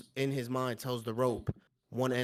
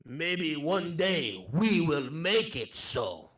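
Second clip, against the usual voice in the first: put-on earnest foreign-accented wanderer; accented traveller; 3 semitones higher, slower than usual. Admiring the pirate's homeland, accented traveller. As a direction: speak wistfully as a foreign traveller.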